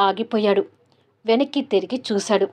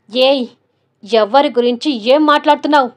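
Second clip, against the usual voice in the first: louder, angry challenge; angry bass voice; 2 semitones higher, 6 dB louder than usual. Acted. Son snaps at Sheela over the phone, angry and louder. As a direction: snap at her like an enraged son. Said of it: "బేస్ voice".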